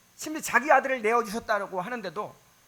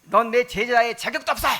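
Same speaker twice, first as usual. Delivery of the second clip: mock rebuke; 3 semitones higher, 7 dB louder than usual. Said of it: "책망하고 그럴 줄 알았더니".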